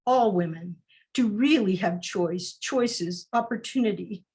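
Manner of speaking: measured spoken-word reading; poem recital. Acted. Poet reading to an online audience, spoken-word delivery. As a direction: let each line land like a poem. Reads her poem aloud.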